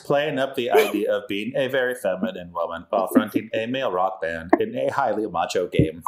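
monotone robot voice; flat robotic delivery. Pretend. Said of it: "You have to do the robot voice".

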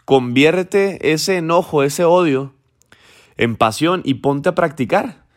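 a hint of a mom urging her son on; lightly voiced mother, coaxing; mother comforting her crying son, lightly voiced, coaxing; mother's voice. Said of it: "Y le dice la mamá".

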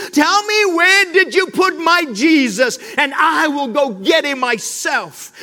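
gently acted tearful plea, slowed on please; pleading. Mary pleading with the gardener, understated tearful voice. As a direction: beg the stranger, half in tears. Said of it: "almost pleading".

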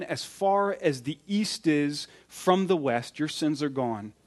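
gentle shepherd's voice. Retold or imitated. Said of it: "The shepherd's voice says".

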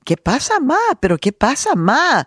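high, loud, urgent questioning; worried daughter raising her voice; retold alarm. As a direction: plead with mom to explain.

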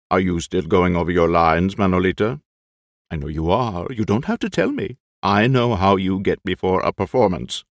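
put-on fussy, anxious old actor; eccentric old actor. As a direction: play the jittery old actor. Lolo talks to the skeleton.

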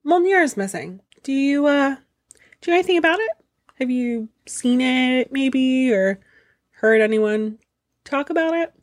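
lightly voiced Loki. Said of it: "Tells the ogre".

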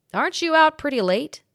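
put-on old bellboy. A narrator's reading. Old bellboy Matt speaks.

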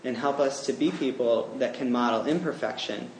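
earnest spoken prayer. Acted. Preacher leads the congregation in closing prayer, earnest. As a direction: pray for the congregation, steady and sincere.

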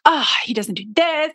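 whispered inner complaint; grumbling to herself about her husband; inner grumble. Retold or imitated. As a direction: breathe it like a thought in her head. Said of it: "in my head, right?".

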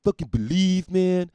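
mock outrage from the kicked-out guy; indignant cokehead. Coked-up guy complaining to the comedian, in indignant mock outrage. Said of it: "He's indignant".

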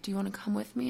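softly imitated kind partner; a gentle, quiet invitation, as retold; Lindsay. Partner inviting someone crying to come along, gentle. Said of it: "being so gentle, being so kind".

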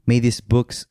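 measured, mildly dramatic read; dramatic letter reading. Acted. Husband reading his old love letter to his wife, mildly dramatic. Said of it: "like, a dramatic voice?".

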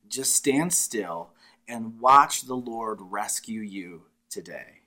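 slow, steady, soothing promise; calm reassurance. Acted. Moses calms the terrified Israelites, slow and reassuring. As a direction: settle a frightened crowd.

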